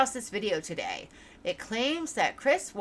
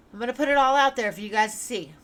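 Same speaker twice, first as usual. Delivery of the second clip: excited; 3 semitones higher, 6 dB louder, faster than usual. Real, not acted. Excited promise to viewers.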